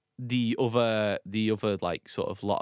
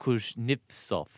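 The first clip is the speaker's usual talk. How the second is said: Kuznetsov said slowly, syllable by syllable; slow careful repeat; much slower than usual. Shown as a demonstration. Repeating the name slowly for a friend who missed it. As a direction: spell out Kuznetsov slowly so it lands.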